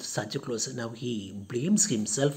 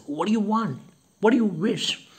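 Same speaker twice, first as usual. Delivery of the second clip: eager servant's question, higher and louder; servant answering a call; 7 semitones higher, 4 dB louder, faster than usual. Acted. Servant asking his caller what he wants, eager. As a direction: pipe up like a servant who came running. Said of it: "Luca comes running and he says".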